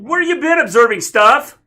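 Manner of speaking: high, very loud, drawn-out question; mock-indignant shout. Host challenges the man who saved the world, mock-indignant shout.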